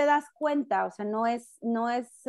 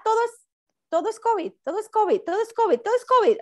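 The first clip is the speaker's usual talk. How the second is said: rising higher and louder with each repeat; building exasperation; 9 semitones higher, 4 dB louder, faster than usual. Real, not acted. Woman complaining to friends that everything is covid, building up.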